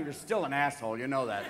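low, unimpressed cat voice; disdainful cat. Acted. Cat sitting by, judging the dog, low disdainful voice. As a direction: put the dog down coolly, pitched low. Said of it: "your cat sits over there going".

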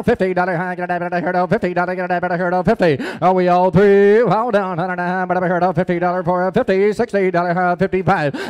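rapid rhythmic auction chant; auctioneer. Acted. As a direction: roll the bid calls in a singsong patter. Auction bid calling chant.

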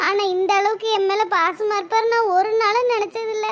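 crying over his kindness; tearful. Acted. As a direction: voice breaking into tears. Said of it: "ஏன் அழுவுற?". (கண்ணீருடன் உடைந்த குரல்)

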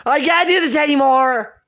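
exasperated, over-the-top cry; dramatic outburst. Acted. Serena giving up in front of a friend, dramatic outburst. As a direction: throw it out like a meltdown. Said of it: "you're acting dramatic".

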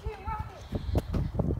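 cartoon villain cry.

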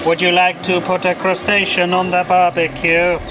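even, robotic voice assistant; Siri. Shown as a demonstration. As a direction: talk like a synthetic phone assistant. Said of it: "shall I do it like Siri".

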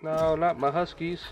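high, slowed cry of dismay; dismayed wail. Real, not acted. Gamer watching his huskies die, dismayed high wail. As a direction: mourn the lost pets, half-joking.

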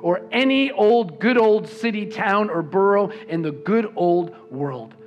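reading the ending with rising joy; joyful book reading. Acted. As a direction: lift the passage like good news. Reads Dickens ending aloud.

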